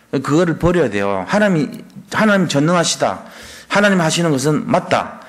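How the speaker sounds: usual speaking voice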